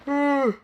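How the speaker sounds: high-pitched yawning sound; real yawn. Real, not acted. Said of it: "sorry, I'm yawning".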